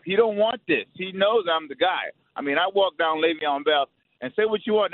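real fired-up rant, emphatic; passionate, heated trash talk; pissed off. Real, not acted. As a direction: vent real contempt in punched phrases. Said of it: "You wanna talk about pissed off?".

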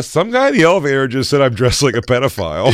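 put-on high whiny kid voice; mock kid voice. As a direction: play the tattling kid. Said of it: "I go".

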